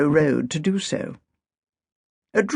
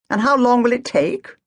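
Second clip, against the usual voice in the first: impatient demand; 8 semitones higher, 3 dB louder than usual. Acted. Agatha presses impatiently.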